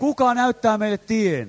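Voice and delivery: loud plea of the lost; crying out. Retold or imitated. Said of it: "Tätä he huutavat ja kysyvät".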